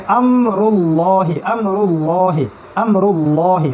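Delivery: আমরুল্লাহি slow, with a heavy, thick ল. Shown as a demonstration. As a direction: say আমরুল্লাহি with a full, dark ল. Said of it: "লাম ভারী পড়লাম".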